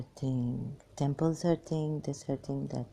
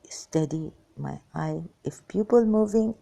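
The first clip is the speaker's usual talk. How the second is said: usual speaking voice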